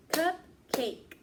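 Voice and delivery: Cupcake said high and loud in two beats, CUP-cake; clapped syllables. Shown as a demonstration. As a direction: clap each beat of Cupcake. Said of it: "Let's say it together and clap with me".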